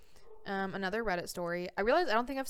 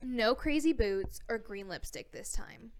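put-on California accent. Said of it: "I have to read this with my California accent".

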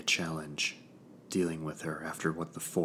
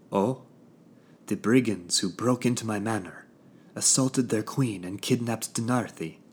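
high, loud, scornful queen; evil queen; 5 semitones higher, 6 dB louder than usual. A narrator's reading. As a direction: sneer out the charges like a haughty queen.

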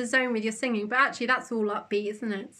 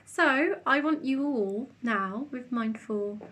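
soft spa whisper; 3 dB quieter, slower than usual. Acted. Leads a meditation.

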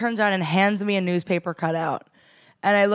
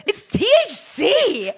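sheepish laugh; 12 semitones higher, slower than usual. Retold or imitated. Confessing to parents, laughing.

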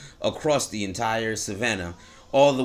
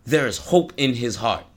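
ordinary talk, nothing marked

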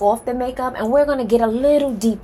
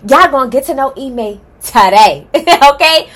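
laughing; 3 semitones higher, 8 dB louder than usual. Real, not acted. Laughing through the words.

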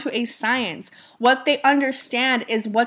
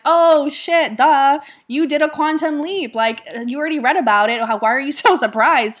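higher, louder duh-you-knew-it tone; mock self-scolding; 4 semitones higher, 4 dB louder than usual. Woman chiding herself over her quantum leap, mock self-scolding. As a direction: tease yourself for being surprised.

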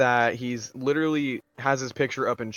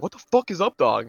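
raised, louder mock exasperation; mad outburst; 6 semitones higher, 5 dB louder than usual. Friend retells John falling for the joke, mad outburst. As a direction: imitate a kid losing his temper. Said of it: "he gets so mad".

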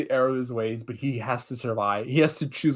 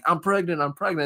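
higher-pitched, imitated desperate begging; mock screeching plea; 6 semitones higher than usual. Retold captive pleads to be picked, mock screech. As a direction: blurt a repeated mock plea. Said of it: "They all start screeching".

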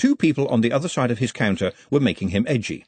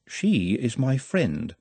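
calm; 2 semitones higher, much slower than usual. Acted. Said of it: "said Nut calmly".

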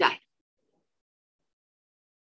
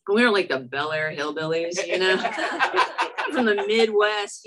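laughing. Real, not acted. Laughing at her hillbilly past.

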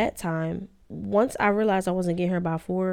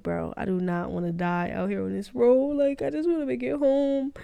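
rising into a high, anxious plea; acted nervous plea; 5 semitones higher than usual. Nervous driver wanting to get home, rising anxious plea. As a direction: re-enact nerves, pitch climbing toward the end. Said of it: "I was so nervous".

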